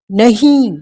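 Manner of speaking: a mother's startled cry of fear. A narrator's reading. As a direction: cry out against the threat. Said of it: "चीख पड़ी पारो".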